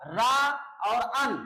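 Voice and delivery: रन pulled apart into रा and अन; split syllables. Shown as a demonstration. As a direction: separate रा from अन with a pause. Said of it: "इसमें भी दो syllable हैं".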